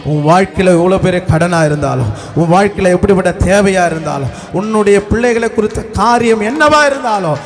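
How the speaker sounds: impassioned preaching. Real, not acted. Preacher promising the congregation God will provide, impassioned preaching. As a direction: proclaim each promise with building force.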